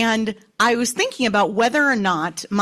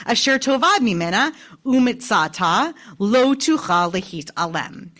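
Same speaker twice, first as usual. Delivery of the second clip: scripture reading; 3 semitones higher than usual. Acted. Teacher reading the next verse aloud to students, measured recitation. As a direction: chant the list of V'chein phrases one by one.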